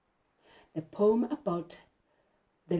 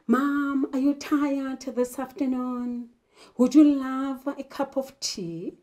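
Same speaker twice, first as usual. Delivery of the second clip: sweet asking; 4 semitones higher than usual. Pretend. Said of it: "You're going to start by saying".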